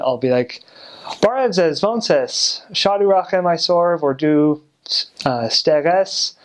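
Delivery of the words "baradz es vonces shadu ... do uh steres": Armenian in a broad American accent, pitched up; bad American accent. Shown as a demonstration. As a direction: butcher the Armenian with American vowels. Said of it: "if I'm speaking a bad accent".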